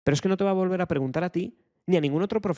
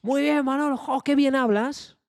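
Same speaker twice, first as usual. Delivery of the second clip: much higher and louder, slow doting praise; proud relative cooing at a five-year-old; family praising child; 9 semitones higher, 5 dB louder, slower than usual. Retold or imitated. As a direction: gush over the little one's speech. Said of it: "¿y qué te dice la familia?".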